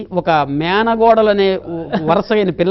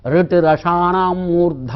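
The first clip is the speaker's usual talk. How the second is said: slow sutra recitation; slower than usual. Shown as a demonstration. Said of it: "అంగుట్లో నుండి పుడుతున్నాయి".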